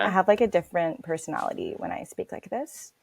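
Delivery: put-on chill Californian accent with vocal fry; laid-back LA valley girl; American valley girl accent. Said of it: "You sound like a valley girl".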